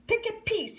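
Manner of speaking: high, loud shouted call. Acted. Alvin on the table shouting to the gators. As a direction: call it out to the crowd. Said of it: "he shouted".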